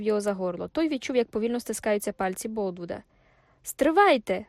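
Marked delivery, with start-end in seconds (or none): 3.6-4.5 strained, louder gasped plea; choked wheeze. A narrator's reading. Troy being choked by Boldwood, wheezing out a plea. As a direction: force it out past a grip on the throat. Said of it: "прохрипів він".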